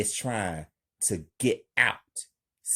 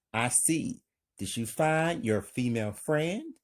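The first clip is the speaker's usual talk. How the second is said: calm. Acted. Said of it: "Miss Carly, calmly".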